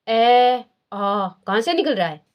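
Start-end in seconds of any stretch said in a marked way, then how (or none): 0.1-1.3 ए, आ drawn out from the throat; demonstrating the sounds. Shown as a demonstration. Teacher showing students where ए, आ come from. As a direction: let the class hear ए, आ from the throat. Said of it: "हम बोल के देखते हैं".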